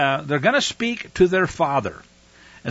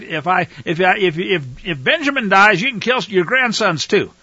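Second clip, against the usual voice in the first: mocking paraphrase; 3 semitones higher, 5 dB louder than usual. Mocking Reuben's rash offer.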